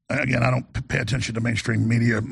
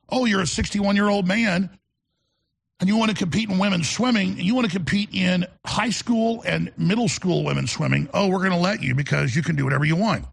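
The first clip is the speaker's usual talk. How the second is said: higher, faster sing-song mockery of the permissive officials; 5 semitones higher than usual. Host mocking officials who allow anything, in a sarcastic higher voice. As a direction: sneer it like a sarcastic pushover saying yes to everything.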